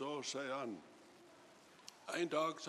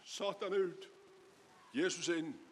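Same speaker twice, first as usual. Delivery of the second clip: mildly raised, emphatic retold cry; retold shouted prayer. Preacher retells a patient crying out to Jesus, mock shout. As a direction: retell the shouted plea with some force. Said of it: "når jeg ropte på Jesus".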